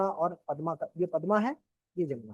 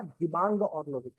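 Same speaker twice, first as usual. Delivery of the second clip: दिबांग और लोहित said slowly, each name spelled out clearly; slow clear repeat; slower than usual. Shown as a demonstration. Teacher repeats the river names slowly for students taking notes. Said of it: "क्या?".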